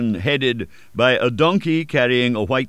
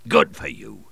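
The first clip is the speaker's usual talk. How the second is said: hearty lower-voiced cry; cried; 10 semitones lower than usual. A narrator's reading. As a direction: shout your approval. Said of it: "he cried".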